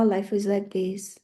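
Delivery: a hushed, resigned whisper; whispered mock complaint. Astrologer mocking a complaining client, whispered. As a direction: breathe it out like a defeated whiner.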